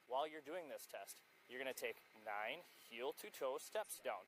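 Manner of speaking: slow, deliberate instructions. Real, not acted. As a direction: spell it out slowly for her. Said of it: "Ten times slower".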